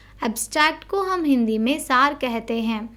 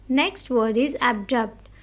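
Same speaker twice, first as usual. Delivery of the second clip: slow headword reading; slower than usual. Shown as a demonstration. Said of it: "We need to stress on the word".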